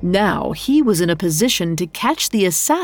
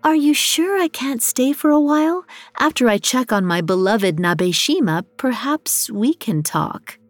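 flirting woman; 5 semitones higher than usual. Acted. Otoyo flirts with Ito.

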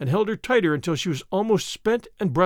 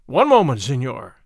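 deep stern voice; 5 semitones lower, 6 dB louder than usual. A narrator's reading. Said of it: "a voice that was at once deep and stern".

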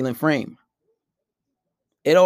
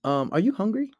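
casual, unbothered change of subject; offhand question, pitched up; nonchalant; 4 semitones higher than usual. Shown as a demonstration. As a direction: ask it lightly, ignoring the insult. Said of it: "just be nonchalant about it".

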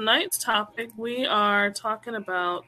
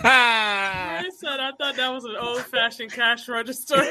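laughing. Real, not acted. Laughing at her own mistake.

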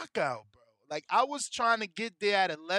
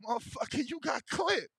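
higher, louder retort; mock shout; 8 semitones higher, 3 dB louder than usual. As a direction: bark it back at him, scornful. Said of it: "I'm like".

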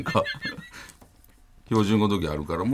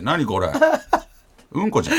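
very calm; 8 semitones higher than usual. Retold or imitated. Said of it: "むちゃくちゃ落ち着いて".

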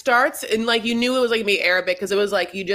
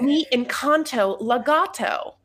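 higher, drawn-out American take on Spanish; obnoxious American-accented Spanish; 4 semitones higher, much slower than usual. Shown as a demonstration. Host redoing her bad example, American-accented Spanish. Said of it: "Spanish with the most obnoxious accent".

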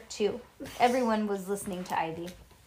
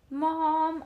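high, mildly raised call for Mom; hollering; 7 semitones higher, 3 dB louder than usual. A narrator's reading. Nancy calling her mom, high hollering. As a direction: holler for Mom, held back a bit. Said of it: "hollered Nancy".

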